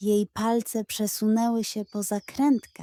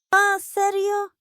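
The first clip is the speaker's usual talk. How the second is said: high, louder disbelief; incredulous goat; 10 semitones higher, 5 dB louder than usual. Acted. Goat doubting the pug's excuse, high and incredulous. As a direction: raise a doubtful eyebrow.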